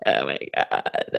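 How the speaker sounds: low creaky unvoiced groan; vocal fry endings. Shown as a demonstration. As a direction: let it crackle down into fry. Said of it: "vocal fry is great tonight".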